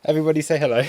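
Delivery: pet talk. Real, not acted. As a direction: chuckle while cooing at the dog. Showing dog to stream again.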